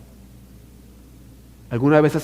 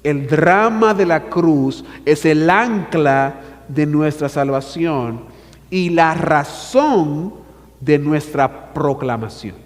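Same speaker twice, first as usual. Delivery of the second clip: the key sentence again, slow and weighty; slow emphatic repeat; slower than usual. Shown as a demonstration. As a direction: lean on drama and razón. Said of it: "Me permito repetir".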